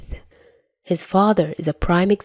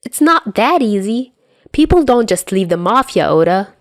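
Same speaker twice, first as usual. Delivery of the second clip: protesting; 4 semitones higher, 4 dB louder than usual. Acted. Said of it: "Dazai protests".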